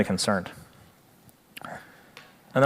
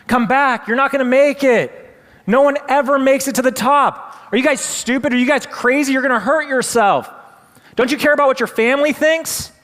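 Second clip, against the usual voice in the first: very high, loud screaming, building to the top; louder and louder; 12 semitones higher, 4 dB louder than usual. Retold or imitated. Crowd screaming at the last frogs, building higher and louder. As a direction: shriek at them to quit, louder each line. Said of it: "the voices get louder and louder".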